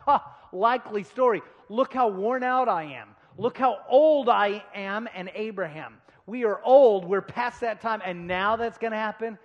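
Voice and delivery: loud, scoffing self-mockery; punchy mock disbelief; self-mocking Sarah. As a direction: act out Sarah scoffing at her own old age. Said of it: "She's laughing at herself".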